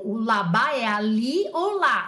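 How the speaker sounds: slow, firm, loud restating; emphatic definition. Shown as a demonstration. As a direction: drum it in word by word. Teacher repeats definition for student.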